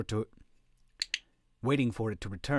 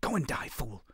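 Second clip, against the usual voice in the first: snarl; 3 semitones higher than usual. A narrator's reading. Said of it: "Grotti snarled at his own men".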